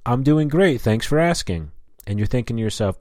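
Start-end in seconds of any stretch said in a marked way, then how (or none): 0.1-1.7 higher-pitched mock-polite rep; customer service rep. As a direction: mimic a chirpy service agent.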